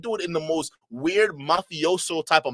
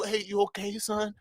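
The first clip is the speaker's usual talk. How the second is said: mock concerned white boy. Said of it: "a white boy gotta come out and ask you".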